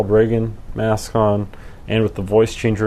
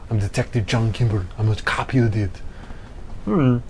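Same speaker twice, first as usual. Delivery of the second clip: voice changer. Pretend. Speaks through voice changer.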